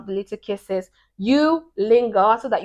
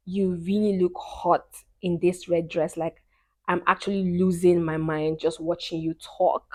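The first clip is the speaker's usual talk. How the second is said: soft, low sweet nothing; demo of whispering; 3 semitones lower, 6 dB quieter than usual. Shown as a demonstration. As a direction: murmur it softly, as if into an ear. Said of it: "When you whisper, like".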